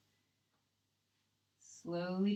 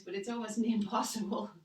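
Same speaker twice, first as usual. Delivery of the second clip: laughing; 2 semitones higher, 5 dB louder than usual. Real, not acted. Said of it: "funny noises".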